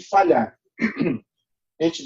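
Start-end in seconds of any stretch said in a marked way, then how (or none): 1.8-2.0 clearing a dry, coughing throat; throat rough from a cough. Real, not acted. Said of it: "desculpa que eu tô com uma tosse".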